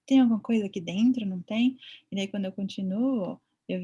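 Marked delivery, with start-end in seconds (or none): 0.1-1.8 surprised wonder. Retold or imitated. Vet reacting to a strange ultrasound image, surprised and louder. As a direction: act amazed at a strange image. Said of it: "Eu falo".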